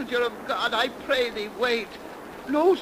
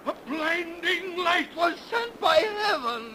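a higher, crying shout of awe; awed cry; 4 semitones higher than usual. Acted. Priest crying out at the blinding light from heaven. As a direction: call it out in wonder.

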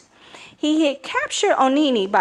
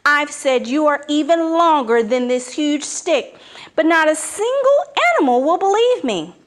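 higher, eager flattery, speeding up; butter up the snake; flattering spider; 5 semitones higher than usual. Acted. Anansi flatters the python.

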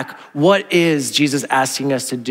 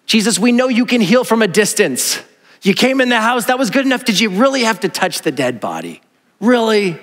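exasperated disciple; 5 semitones higher than usual. Pretend. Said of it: "If I'm a disciple, I'd be like".

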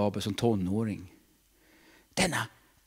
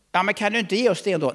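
higher, quick whiny plea; pleading believer; 9 semitones higher, 4 dB louder, faster than usual. Acted. Preacher playing a believer pleading with God, whiny. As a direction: beg God to just give it.

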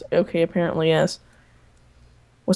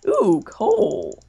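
excited; 11 semitones higher, 3 dB louder than usual. Real, not acted. Finding coal in cave.

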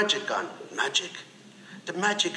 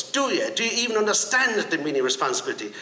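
retold shout; 3 semitones higher than usual. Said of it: "she shouts".

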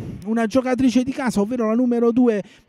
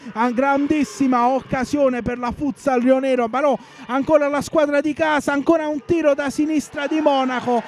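excited commentary; 3 semitones higher than usual. Real, not acted. Rising attack, commentator builds.

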